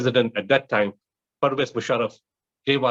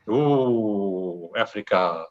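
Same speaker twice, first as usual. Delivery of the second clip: mocking condescension; 4 semitones lower, much slower than usual. Speaker mimics condescending foreign aid workers.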